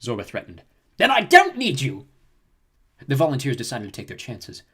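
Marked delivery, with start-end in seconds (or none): 1.0-2.1 slow, high, sinister gangster threat; menacing Hutt voice. Acted. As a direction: growl the threat like a crime boss. Hutt crime lord threatening.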